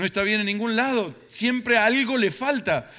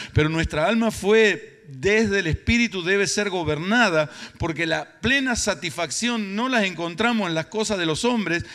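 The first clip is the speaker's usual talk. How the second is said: forceful preaching; 2 semitones higher, 6 dB louder than usual. Real, not acted. Preacher telling congregation grace is sufficient, forceful and building. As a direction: drive each key word home loudly.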